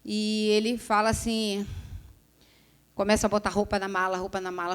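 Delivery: ordinary delivery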